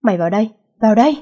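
fast, furious orders; angry command. Acted. Father ordering his daughter inside, fast angry command. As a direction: rush the command out in anger.

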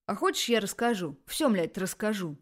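almost yell it at her; near shout. Acted. Shuvalov lashing out at Tanya, angry near shout. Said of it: "повысил практически до крика голос".

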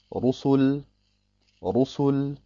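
Rusul mit dunklem, schwerem R; dunkles Ra. Shown as a demonstration. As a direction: sprich das R in Rusul dunkel und gedehnt. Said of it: "Dunkel ausgesprochen". (Rusul mit dunkel gefärbtem Ra)

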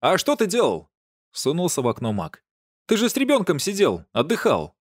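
high, teasing jab; high mocking dig; mocking tease. A narrator's reading. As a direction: needle him, grinning. Mac teases through window.

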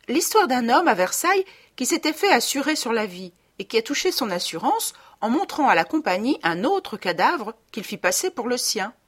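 high, lively fairy-like wife. Acted. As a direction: tell it like a little fairy. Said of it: "d'une voix de fée".

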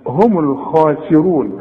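هم الخاسرون recited slowly with full letters; slow recitation. Shown as a demonstration. Teacher recites to his student, slowly and clearly. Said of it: "العربي الأصيل هو اللي يطلع الحرف".

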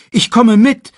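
very high, loud cub; Simba uneasy. A narrator's reading. Cub not wanting to be left, high and uneasy. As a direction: blurt it out anxiously. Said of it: "Simba wurde unruhig".

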